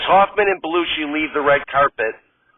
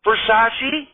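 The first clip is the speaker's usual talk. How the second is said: put-on much higher, chirpy, girlish voice; sweet Gilda; 8 semitones higher than usual. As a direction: gush like a delighted starlet. Radner answers.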